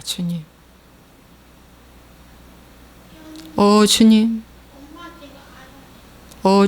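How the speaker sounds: measured, sustained prayer voice; earnest pastoral praying; leading prayer. Real, not acted. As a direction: address God in solemn phrases. Leads congregational prayer.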